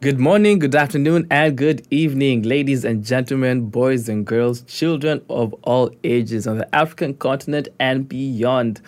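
ringmaster. Acted. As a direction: roll up, roll up announcer. Host's grand circus-style welcome.

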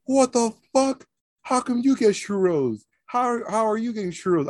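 high-pitched mock outrage; hammed-up, high, incredulous complaint. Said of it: "You hear him".

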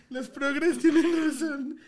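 slow, laughing admission; entre risas. Real, not acted. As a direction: concede it while still giggling. Conceding after laughing fit. (admitiéndolo entre risas)

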